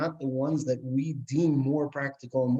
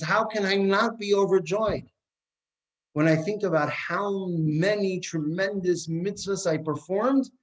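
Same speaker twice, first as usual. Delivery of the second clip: overjoyed husband; 7 semitones higher than usual. Acted. Husband explains his joy to wife.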